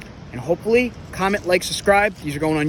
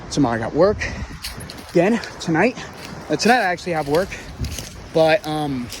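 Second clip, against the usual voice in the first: out of breath. Real, not acted. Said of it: "sorry, I'm just catching my breath".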